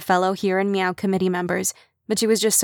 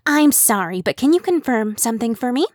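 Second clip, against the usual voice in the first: higher, tight squeaky voice; 4 semitones higher than usual. Acted. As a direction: squeak it out nervously. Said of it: "Kim asked in a squeaky voice".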